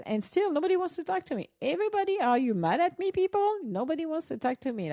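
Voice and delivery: high mock-pouty call, rising sharply on people; playful sulk. Real, not acted. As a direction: pretend to be hurt that nobody joins. Calling out to silent listeners.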